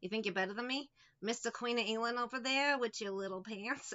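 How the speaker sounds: mock challenge in a Boston-New York accent. Shown as a demonstration. Taunting a so-called Queen of England, Boston or New York accent. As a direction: lightly sneer in a muddled East Coast accent. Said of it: "I don't know if it's Boston or New York now".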